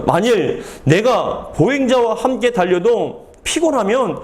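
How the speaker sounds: slow, emphatic verse reading; scripture reading. A narrator's reading. Pastor rereads verse five to the congregation, measured scripture reading. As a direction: read each phrase out deliberately.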